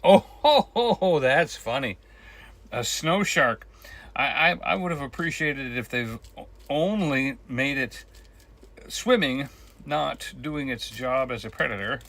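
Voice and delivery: laughing French chef, loud and hammy. Pretend. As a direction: chuckle through it in a big French accent.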